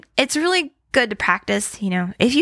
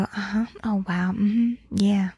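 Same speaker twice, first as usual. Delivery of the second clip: attentive listener; 4 dB quieter than usual. Retold or imitated. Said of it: "they just go".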